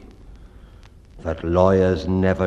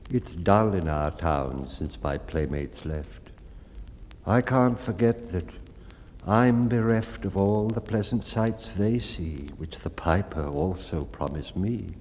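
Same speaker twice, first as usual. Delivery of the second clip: put-on wistful lame boy; 3 semitones lower, 5 dB quieter than usual. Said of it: "he was wont to say".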